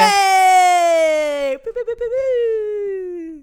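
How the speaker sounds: loud, high, slow mock booing. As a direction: boo the contestant like a crowd. Mock-booing a wrong answer.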